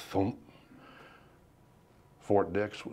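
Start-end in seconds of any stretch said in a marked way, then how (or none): 0.1-0.3 imitated far-off mortar thud; distant thump. Veteran imitating mortars at Fort Dix, distant thump. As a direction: make one short, muffled thump. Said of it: "you could hear it off in the distance".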